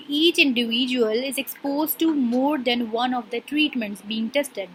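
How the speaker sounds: slow, deliberate dictation pace; reading a definition aloud. Shown as a demonstration. Teacher reading a textbook definition to her class, slowly. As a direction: read each word out slowly for students to follow.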